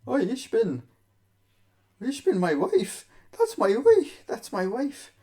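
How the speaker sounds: high, loud mock German accent, squawking in shock; mock German husband. German husband spots his wife on the UFC, mock German shock. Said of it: "He's like".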